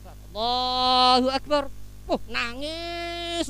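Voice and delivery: very slow, drawn-out takbir; lightly hammed-up weepy prayer; mock tearful imam. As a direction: stretch it out like a moved prayer leader.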